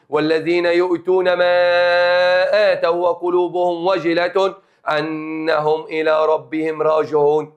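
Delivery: slow, measured chanting of the verses; Quran recitation. Acted. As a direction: recite it slowly, drawing out each phrase. (تلاوة قرآنية بطيئة ومرتلة)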